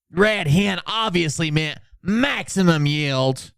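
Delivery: slow, slightly high mocking read; mocking Phil. Streamer parroting Phil's excuse, slow and smug. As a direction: drag it out like a smug know-it-all. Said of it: "he said".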